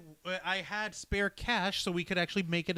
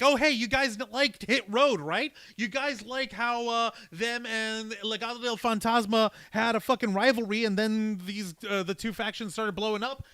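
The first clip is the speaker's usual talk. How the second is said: loud salesman voice; 3 semitones higher, 9 dB louder than usual. Retold or imitated. Voicing company executives.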